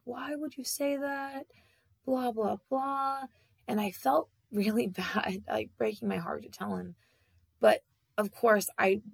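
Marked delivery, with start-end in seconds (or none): 0.0-3.2 mock-indignant, higher and slowed; hammed-up angry dad brushing it off; imitating pissed dad. Dad angry at being told he died, mock-indignant imitation. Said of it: "he was so pissed".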